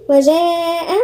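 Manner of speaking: وجاء with a long "aa" before the glottal stop; connected madd. Shown as a demonstration. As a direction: hold the vowel of وجاء four counts, then close on hamza. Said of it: "هنا في مد متصل أربع حركات". (مد متصل في "وجاء")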